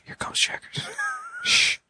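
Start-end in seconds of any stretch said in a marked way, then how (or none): 0.0-0.8 hushed unvoiced whisper. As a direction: whisper it urgently. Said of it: "Why are you whispering?".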